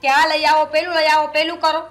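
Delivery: loud, mocking jabs at every order; sarcastic anger. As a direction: throw her commands back at her. Daughter-in-law mocks her orders. (કટાક્ષ ભર્યો ગુસ્સો)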